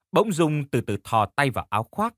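ordinary delivery

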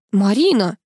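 a booming, commanding call; thunderous voice. A narrator's reading. The colonel calls Marina, booming. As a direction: summon her with a loud bark. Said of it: "громовым голосом велел полковник".

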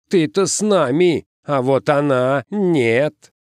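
high, emphatic objection; rejecting. A narrator's reading. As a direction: shut the outsider out. Парень не пускает девочку.

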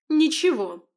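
high, loud squeal; shrieked. Acted. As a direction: shriek the denial. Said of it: "взвизгнула мать".

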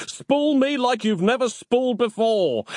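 high-pitched, impassioned yell. A narrator's reading. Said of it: "yelled Nick".

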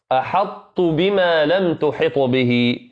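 slow, drawn-out tajweed recitation of "أحط بما لم تحط به"; careful recitation. Shown as a demonstration. Teacher showing the students how to recite slowly.

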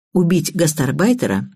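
ordinary delivery

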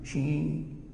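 شين with a hushing sh in place of j; jīm slipping to shīn. Shown as a demonstration. Teacher showing the shortened-tongue fault, شين with sh for j. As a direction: let the ج slide into sh, long ī. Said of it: "فتكون مجدة بالشين".

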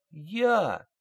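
high, timid little squeak; a frightened private's tiny squeak. A narrator's reading. Private answers his sergeant with a timid squeak. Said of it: "пискнул Кузнецов".

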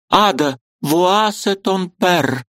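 высокий медленный ласковый французский; покажи девочке отца; мать показывает дочь. A narrator's reading. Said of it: "проговорила Варвара Павловна". (высоко и медленно, по-французски)

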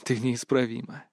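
soft, low, resigned remark; sighed resignation. A narrator's reading. Kris gives up arguing with Berta, sighing softly. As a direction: let it out low, like a sigh. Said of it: "вздохнул".

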